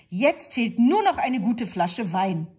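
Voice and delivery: wolf's voice. A narrator's reading. Wolf speaks.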